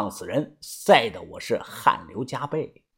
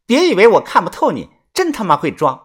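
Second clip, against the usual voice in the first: mild contemptuous scolding; 5 semitones higher, 5 dB louder than usual. A narrator's reading. Lookout scolds the girl.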